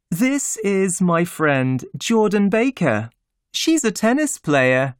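a hint of a cheerful society lady; lightly voiced Daisy. A narrator's reading.

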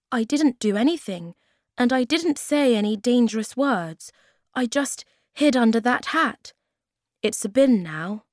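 lightly voiced young Moomin Troll protesting. Moomin Troll explains the change.

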